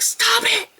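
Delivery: high mock kid snap; squeaky child voice. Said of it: "It's like".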